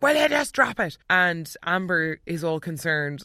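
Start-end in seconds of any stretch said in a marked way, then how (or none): 0.0-1.0 mock Dean retort. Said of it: "he's like".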